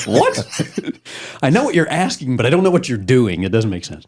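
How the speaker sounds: baffled. Retold or imitated. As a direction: sound totally bewildered. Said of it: "And I'm like".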